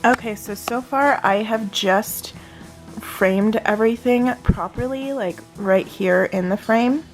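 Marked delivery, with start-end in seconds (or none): none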